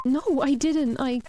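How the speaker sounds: high, loud panicked no; a frantic denial to the accusing ghost. Acted. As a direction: cut yourself off in alarm.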